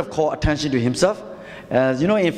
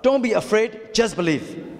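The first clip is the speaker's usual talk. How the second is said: a bit higher and more forceful; said louder; 4 semitones higher than usual. Shown as a demonstration. Preacher urging the congregation to say it louder, more forcefully. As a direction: lift it up for the room to hear. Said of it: "And say it louder".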